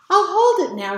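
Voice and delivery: put-on a kid claiming his turn, loud; proud shout. A narrator's reading. Sam shouts proudly in story.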